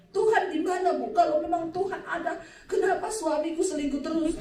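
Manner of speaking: mock-plaintive challenge; mock complaint. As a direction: lightly mimic a demanding, wronged wife. Mimics complaining woman in counselling.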